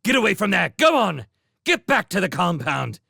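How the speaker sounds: furious sentry ordering him off; angry guard. Acted. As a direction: drive the otter away. Guard angrily chasing otter off.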